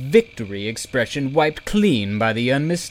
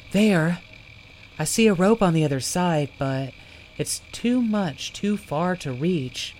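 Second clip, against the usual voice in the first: excited calling; 8 semitones higher than usual. Acted. Zelly spots rope, calls out.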